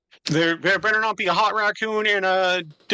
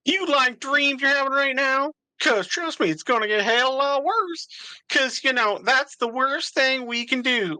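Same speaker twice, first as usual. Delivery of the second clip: Duke voice; 3 semitones higher than usual. Acted. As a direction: sneer it as the small Duke.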